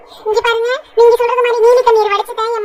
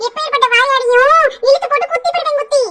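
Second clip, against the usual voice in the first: mock threat; 5 semitones higher than usual. Daughter-in-law threatens mother-in-law.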